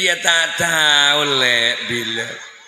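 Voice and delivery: slow, chuckling dodge; husband evading wife's question; husband laughing it off. Retold or imitated. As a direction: drawl the excuse with a laugh. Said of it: "si laki".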